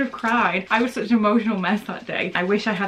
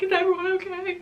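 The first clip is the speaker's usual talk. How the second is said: high, teary, frazzled voice; flustered and close to tears; emotional whirlwind; 12 semitones higher than usual. Retold or imitated. Rushing around checking on everyone, teary and frazzled. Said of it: "running around like".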